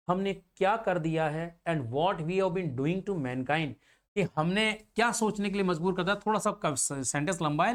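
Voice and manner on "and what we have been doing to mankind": slow, spaced words for students to copy; slow dictation pace. Shown as a demonstration. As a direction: read it out slowly like notes. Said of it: "dictating notes".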